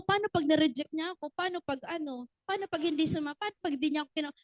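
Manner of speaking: quiet anxious what-ifs; worried inner voice. Retold or imitated. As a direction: mutter the what-ifs nervously under your breath.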